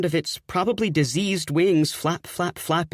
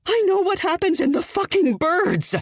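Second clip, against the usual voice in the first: high, loud frustrated outburst; exasperated yell; 3 dB louder than usual. Acted. Fiancée snaps at Kip's Hitchcock joke, high loud. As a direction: blow up at him.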